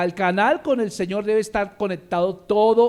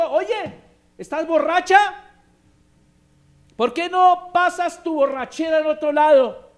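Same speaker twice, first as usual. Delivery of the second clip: a loud, higher mock accusation; scolding priest; 7 semitones higher, 5 dB louder than usual. Priest Eli accusing praying Hannah of drunkenness, loud scolding. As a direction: confront her like a suspicious priest.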